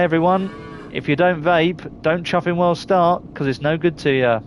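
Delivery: a light imitation of a friend's catchphrase, slowed; lightly voiced mate giving his sign-off; Popcorn's tagline. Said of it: "as our Popcorn would say".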